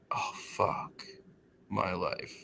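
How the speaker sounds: hushed, defeated, almost under the breath; dejected muttering. Retold or imitated. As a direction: mutter it very softly, sunk in defeat. Muttered despair in retold scene.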